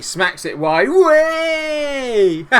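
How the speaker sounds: loud, high drawn-out cheer; excited cheer. Real, not acted. Gamer cheering as he watches the match, elated shout. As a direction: burst into a high, stretched-out celebration. Celebrates during his match commentary.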